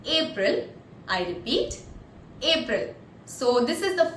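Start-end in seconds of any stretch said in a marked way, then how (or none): 0.0-0.7 APRIL enunciated by itself, falling at the end; clear pronunciation. Shown as a demonstration. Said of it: "I'll pronounce it clearly". 2.4-2.9 APRIL enunciated by itself, falling at the end; clear pronunciation. Shown as a demonstration. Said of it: "I'll pronounce it clearly".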